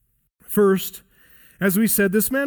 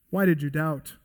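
gentle correction; 3 semitones lower than usual. Shown as a demonstration. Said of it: "It's gentle, but it is a correction".

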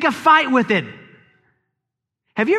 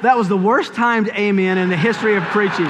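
laughing remark. Real, not acted. Laughing at a mistimed amen.

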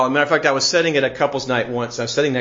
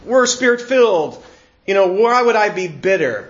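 mild mock protest to Paul; protesting listener; 3 semitones higher than usual. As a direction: push back in acted, slightly higher disbelief. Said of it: "It's like".

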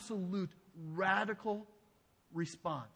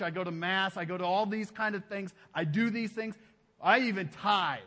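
self-righteous worshipper; 5 dB louder than usual. Acted. They had their own.

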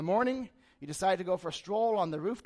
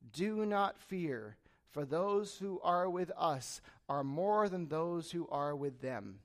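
slow, measured reassurance; composed authority; 2 semitones lower, much slower than usual. Retold or imitated. Elisha calming his frightened servant, composed and slow. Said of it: "his composure".

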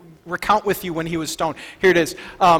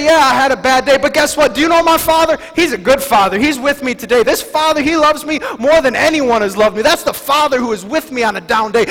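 louder, higher, confident proclaiming; bold declaration; 4 semitones higher, 5 dB louder than usual. Shown as a demonstration. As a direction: declare it with conviction. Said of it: "What if we change that a little bit".

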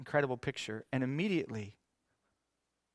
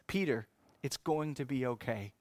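reassuring. Acted. Jesus reassures Peter.

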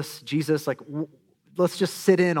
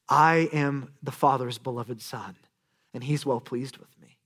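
tender inner voice; 3 semitones lower than usual. Pretend. Jesus' inner voice imagined.

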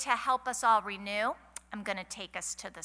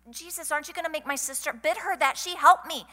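complaining Martha; 6 semitones higher, 4 dB louder than usual. Retold or imitated. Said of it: "she starts complaining".

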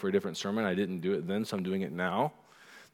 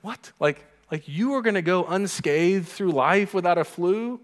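high, disbelieving teasing tone; incredulous mock; 6 semitones higher, 3 dB louder than usual. Parent teasing sick child, high incredulous scoff. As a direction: scoff at the idea of a life without flu.

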